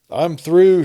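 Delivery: loud, high, bursting with triumph; joyful shout. A narrator's reading. Holiday shouting to his visitor Dugan, exultant. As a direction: shout it out, thrilled to be done. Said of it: "shouted Holiday at sight of his visitor".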